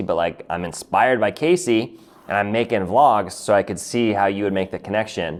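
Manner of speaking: ordinary talk, nothing marked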